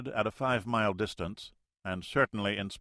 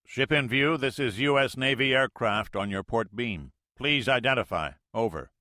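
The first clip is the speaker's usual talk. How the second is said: radio hail; 4 semitones higher, 5 dB louder than usual. Acted. Navy pilot hails ship by radio.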